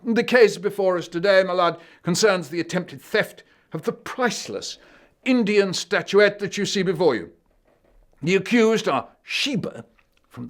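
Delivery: high, loud courtroom prosecutor voice; a dog playing barrister, grandly; the dog addresses the court, pompous and loud. Dog prosecutor opens the case.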